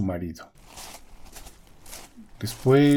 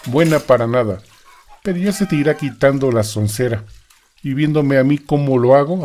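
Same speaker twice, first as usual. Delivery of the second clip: louder, scolding husband; bossy husband; 4 dB louder than usual. Acted. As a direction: scold her like a gruff husband.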